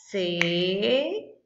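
Tesoura said slowly, mouth opening on each syllable; syllables counted aloud. Shown as a demonstration. Teacher showing kids how to count syllables, slow. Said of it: "Quantas sílabas tem?".

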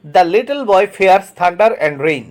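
very slow, word by word; slow dictation reading. Shown as a demonstration. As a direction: read it out slowly for the class to copy. Teacher reads example sentence aloud. (ধীরে ধীরে শ্রুতলিখনের মতো পড়া)

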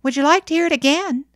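quick, loud, high-pitched eagerness; delighted boy, rushing the question; radiant. A narrator's reading. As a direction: ask proudly, bursting to do it.

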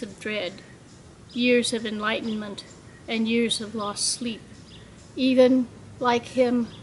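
measured poem, short phrases with pauses; poem reading. Acted. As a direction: let each line fall gently at its end. Poet reads own poem aloud.

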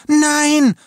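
very high, loud cry; screamed refusal. A narrator's reading. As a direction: scream in desperate protest. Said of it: "schrie Jana Bertha". (gellender, verzweifelter Schrei)

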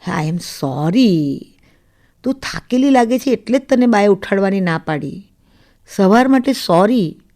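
mildly tender, drawn-out sorry; tender apology. Acted. Husband beside sulking wife apologises for the morning, gently.

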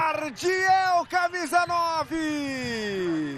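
explosive goal commentary. Real, not acted. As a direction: belt out the scorer's name. Naming the goal scorer.

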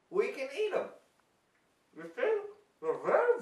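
loud, folksy lab professor showing off; hammy scientist. Acted. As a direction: ham it up like a TV science host. Plays the mushroom scientist.

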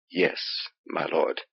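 soft, half-whispered murmur. Acted. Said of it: "Vinorcus murmured".

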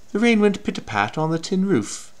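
British accent. Shown as a demonstration. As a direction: put on a false British accent. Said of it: "if I say it with a, with a British accent".

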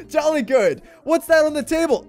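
lightly hammed-up jolly picnicker; put-on jolly voice. Picnicker spotting something on the table, silly voice. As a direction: playact a jolly gent, slightly lifted pitch. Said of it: "I don't know why I'm using that voice".

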